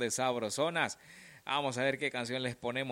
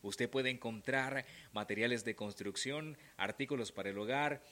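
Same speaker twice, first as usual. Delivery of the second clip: ad read. Acted. Radio sponsor ad read.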